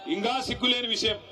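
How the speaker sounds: ఇంకా సిగ్గు లేని విషయం shouted through a laugh, stress on లేని. Real, not acted. Rally speaker mocking the defected MLA, laughing shout.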